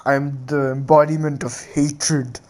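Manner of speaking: slow, lightly voiced beast; hint of a monster's solemn menace; menacing Ninetales. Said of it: "Ninetales was like".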